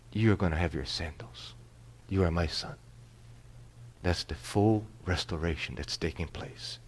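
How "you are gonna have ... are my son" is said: low, softer and tender; quiet, settled fatherly assurance; reassuring father. Acted. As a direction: reassure him gently, voice lowered. Father reassures returned son.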